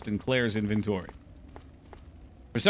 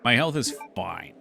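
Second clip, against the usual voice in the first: passive aggressive. Shown as a demonstration. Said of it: "in a super passive-aggressive tone".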